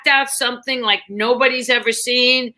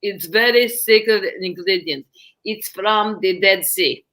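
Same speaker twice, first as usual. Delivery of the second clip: saleswoman voice; 3 semitones lower than usual. Retold or imitated. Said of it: "She goes".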